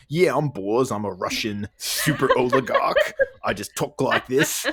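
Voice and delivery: lightly imitated Cockney accent, laughing through it; a hint of Cockney, giggling as the lines go on; Ray Winstone Cockney impression. Podcaster jokingly doing an actor's Cockney accent. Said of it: "he never loses his, like, Cockney accent".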